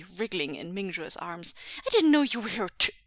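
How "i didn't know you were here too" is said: high, loud and bubbling over; excited child. A narrator's reading. Son finds cousins also sleeping over, excited. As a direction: build to a gleeful high shout. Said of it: "Jingyi cried excitedly".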